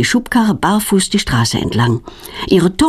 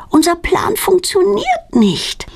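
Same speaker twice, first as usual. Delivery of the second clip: put-on much higher, slow tearful girl's complaint; a girl near tears over the failed plan; disappointed wail; 11 semitones higher, slower than usual. A narrator's reading. Claudia's plan fails.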